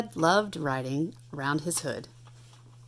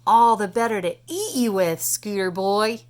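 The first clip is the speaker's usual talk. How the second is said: louder, growling truck roar; 2 semitones higher, 5 dB louder than usual. Acted. Monster truck roars at the scooter before pouncing. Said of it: "roared Tank".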